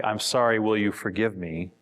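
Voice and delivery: a touch of grudging tone; forgive me with attitude. Shown as a demonstration. Speaker showing a grudging request for forgiveness. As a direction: ask for forgiveness a bit grudgingly. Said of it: "with attitude".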